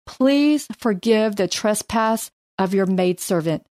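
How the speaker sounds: measured, earnest Bible reading; scripture reading. Acted. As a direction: read Abigail's plea with care. Reads scripture aloud.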